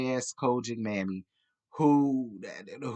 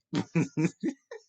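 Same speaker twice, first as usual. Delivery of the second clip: bright laugh at herself; amused laugh; 4 semitones higher than usual. Real, not acted. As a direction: laugh off the slip. Laugh after catching herself.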